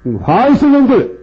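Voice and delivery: Jesus denouncing. Retold or imitated. Preacher voicing Jesus crying woe to the hypocrites, denouncing. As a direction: thunder the woes at the hypocrites, rising to a shout. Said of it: "일곱 번 하를 외쳤어요".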